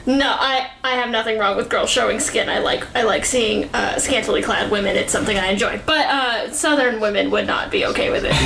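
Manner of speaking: lightly done Southern church lady. Acted. Voice actor teasing Scott with a light Southern accent. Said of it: "I did a voice for you, Scott".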